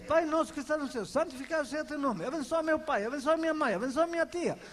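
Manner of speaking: reeled off fast by habit, mechanical; rote prayer. Retold or imitated. Preacher mimicking believers' daily rote prayer, fast and mechanical. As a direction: rush through the memorized prayer like a chore. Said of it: "Todos os dias".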